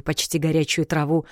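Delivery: ordinary delivery, nothing marked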